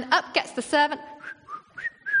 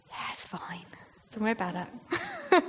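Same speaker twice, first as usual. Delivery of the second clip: soft, offhand reassurance; nonchalant; 3 semitones lower, 5 dB quieter than usual. Acted. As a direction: play it casually unbothered, almost under the breath. Acting Elisha unbothered by the army.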